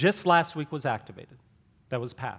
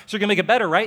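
eager plea; 7 semitones higher, 10 dB louder, much faster than usual. Retold or imitated. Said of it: "You're like".

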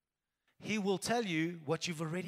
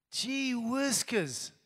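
drawn-out exclamation; 3 semitones higher, much slower than usual. Shown as a demonstration. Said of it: "I haven't said that in ages".

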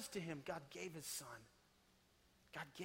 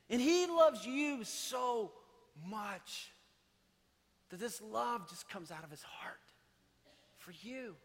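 hushed tender whisper; 4 semitones higher, slower than usual. Acted. Tender climax about God's love.

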